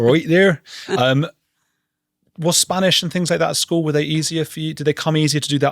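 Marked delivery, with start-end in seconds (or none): 0.0-0.6 "oi there" with a trilled R, laughing, louder; laughing rolled R demo. Shown as a demonstration. Friend trying out a rolled R for him, laughing. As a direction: roll the R in "oi there" through a laugh. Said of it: "That's all I can sort of".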